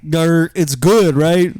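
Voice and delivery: slow mock growl; impression of himself aroused. Shown as a demonstration. Telling co-host what he wants to be like, mock growl. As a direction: growl it slowly, half joking. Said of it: "That's my impression".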